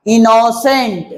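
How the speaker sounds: इनोसेंट slowly parted, "ino", then "sent"; two-part breakdown. Shown as a demonstration. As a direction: say इनोसेंट in two measured chunks. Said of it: "दो बार में". (इनोसेंट को धीरे से दो हिस्सों में बोलना)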